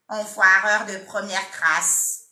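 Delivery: lightly voiced prank host insult; imitating Mike's catchphrase. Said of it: "C'est Mike".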